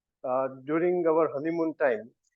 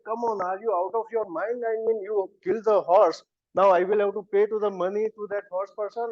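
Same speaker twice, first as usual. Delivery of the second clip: mildly angry, higher-pitched telling-off of his wife; retold furious scolding; 3 semitones higher than usual. Husband scolding wife for killing the horse, mock furious. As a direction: scold her in exasperation, retelling it. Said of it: "I was so furious".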